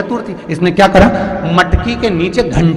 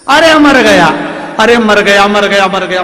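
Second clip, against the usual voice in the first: loud, high cries of pain fading down; husband hit in the dark yelling in pain; 3 semitones higher, 5 dB louder than usual. Acted. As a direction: howl as if struck by a stick. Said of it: "पति चिल्लाए".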